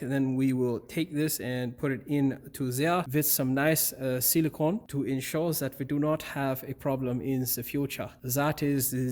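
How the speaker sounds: light put-on Austrian-German accent. Mechanic explaining the silicone step in a mock German accent. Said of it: "the best, uh, German accent that I have".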